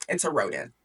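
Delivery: dropped low, mock-stern father; stern king. King refusing his pleading daughter, low acted sternness.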